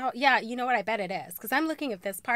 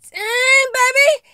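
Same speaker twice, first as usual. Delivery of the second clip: higher, louder, slow drawn-out cheer; delighted holler; 12 semitones higher, 10 dB louder, much slower than usual. Real, not acted. Admiring tall heels for viewers, delighted holler.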